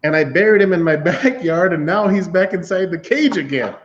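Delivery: a lightly voiced baffled neighbor; neighbor's bewildered account. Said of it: "he's like".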